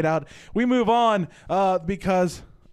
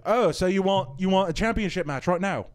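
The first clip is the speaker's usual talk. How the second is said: higher, louder bad Irish accent that slips into British; botched Irish accent; 4 semitones higher, 4 dB louder than usual. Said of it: "You're doing British".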